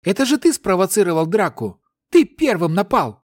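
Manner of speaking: put-on high indignant girl's voice; accusing. A narrator's reading. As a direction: throw the blame at him. Silfa accusing Ryu in quarrel.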